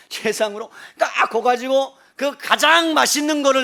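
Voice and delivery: very loud, high, drawn-out relish; emphatic gusto. Real, not acted. Preacher describing the tastiest fish for Peter, emphatic gusto. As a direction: belt it out slowly with huge gusto. Enthusing over the best grilled fish.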